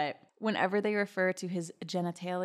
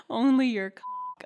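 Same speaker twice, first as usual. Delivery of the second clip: put-on higher, slow, lightly girly voice; high voice for her; 4 semitones higher, 6 dB louder, slower than usual. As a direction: voice the woman a little higher. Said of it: "I'll just do high and low voices".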